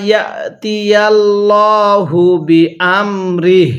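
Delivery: ইয়াতিয়াল্লাহু with a thick, heavy lam in Allah; full heavy লা in ইয়াতিয়াল্লাহু. Shown as a demonstration. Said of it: "এটাকে মোটা করে পড়বেন".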